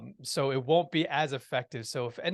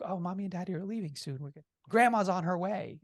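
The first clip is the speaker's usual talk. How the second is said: put-on higher, gentle talking-to-a-child voice; parent soothing child; 6 semitones higher than usual. Father tells his little daughter they're leaving, reassuring. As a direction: lightly imitate a parent keeping a child calm.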